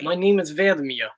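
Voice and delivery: put-on Russian introduction; roughly imitated Russian accent; mock Russian accent. Shown as a demonstration. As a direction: introduce yourself as a stock Russian. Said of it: "It's Russian".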